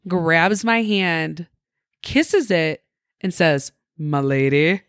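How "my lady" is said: mock gallant knight. Stranger kissing her hand.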